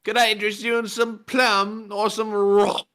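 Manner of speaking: very high, squeaky offer; squeaky little salesman voice; high pitched voice. Acted. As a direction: pitch way up like a tiny creature selling. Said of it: "why do you get so high pitched?".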